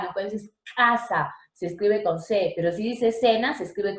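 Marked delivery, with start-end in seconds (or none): 0.8-1.3 CASA with a crisp K at the start; hard K. Shown as a demonstration. Teacher contrasting letter C sounds, hard K in CASA. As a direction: stress the opening K of CASA. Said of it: "como en la K".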